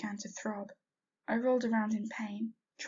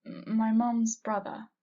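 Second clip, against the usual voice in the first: choking up; 6 dB louder, slower than usual. Acted. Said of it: "choking on the word mum".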